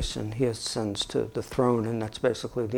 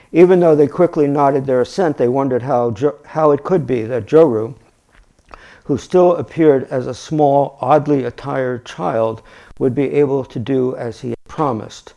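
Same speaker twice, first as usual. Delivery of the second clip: louder, projected storybook reading; story narration; 8 dB louder than usual. A narrator's reading. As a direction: read the tale out with emphasis. Reads the story aloud.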